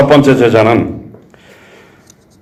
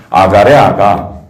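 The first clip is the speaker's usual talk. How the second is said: slow tender cooing; 2 semitones lower, much slower than usual. Retold or imitated. Pastor savoring God's word to a child, slow and tender. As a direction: coo the word slowly to a little child.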